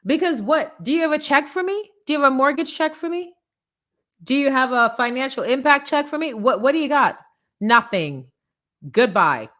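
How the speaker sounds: loud mock-defiant kiss-off; sassy rant. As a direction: wave the critics off with attitude. Sassy dismissal of critics.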